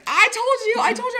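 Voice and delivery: high, singsong told you so; teasing I told you. Retold or imitated. Bartender to Jen after the blowup, high teasing told you so.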